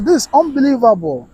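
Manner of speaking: high-pitched disbelief; incredulous. Retold or imitated. Host reads a viewer's reaction to the death, incredulous. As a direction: read it as someone who cannot believe it.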